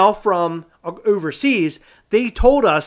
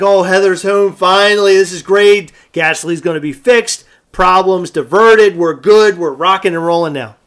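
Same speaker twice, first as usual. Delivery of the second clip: retold relief; 6 dB louder than usual. Retelling his relief Heather is home.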